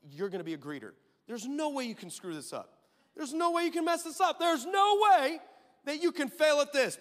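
building mock pep talk; building insistence. Pastor instructing greeter, building up.

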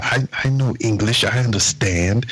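a hint of the offended old man; storyteller quoting the old man defending himself; lightly imitated old man. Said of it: "He said".

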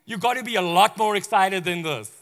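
lightly voiced surfer-bro angel; casual bro. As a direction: Gabriel chiding Zechariah like a buddy, exasperated. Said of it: "He's almost like".

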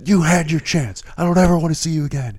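high, loud, fast dismissal; mock scolding. Boss dismissing the developer for good, loudly. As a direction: boss coldly firing him. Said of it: "And he goes".

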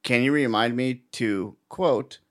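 slow, measured dictation with punctuation spoken; deliberate voicemail dictation voice; voice-to-text dictation. Shown as a demonstration. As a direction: dictate to a machine, pausing between chunks. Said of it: "I literally will talk like that".

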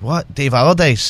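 imitating her mild double take; puzzled repeat. Girl in a club mishears his surname, puzzled. Retells girl's puzzled reaction to name.

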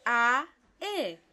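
A then E, jaw closing on E; teacher's A and E; vowel demo. Shown as a demonstration. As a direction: show the E after the A. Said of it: "La E se forma".

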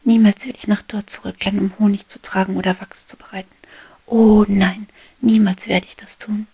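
high, loud giddy declaration; a bee drunk on sunlight, shouting her dreams; exuberant cry. Acted. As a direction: proclaim your freedom with overflowing joy. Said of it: "rief sie".

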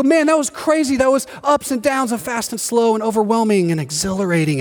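mock thrilled. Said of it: "you're just so happy".

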